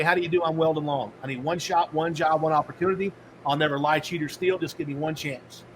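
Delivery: earnest door-to-door job pitch; eager sales pitch. Retold or imitated. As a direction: pitch yourself like a hopeful job seeker. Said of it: "I had a little spiel".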